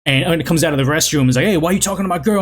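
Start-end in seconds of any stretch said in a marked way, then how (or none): 1.5-2.4 quick, lightly voiced confrontation; a touch of jealous challenge, hurried; mock upset boyfriend. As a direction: rush it out like a mildly miffed boyfriend. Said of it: "getting all upset".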